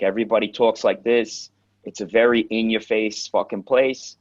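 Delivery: punchy in-your-face New York talk; a hint of brash Queens, New York; New York accent. Shown as a demonstration. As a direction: lean lightly into New York attitude and accent. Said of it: "it's very New York".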